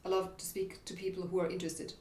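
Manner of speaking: lightly chopped, quick, even words; mild staccato. Shown as a demonstration. Coach showing a delivery to avoid, mild staccato. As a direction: say "I love to speak" in short even beats. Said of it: "staccato delivery".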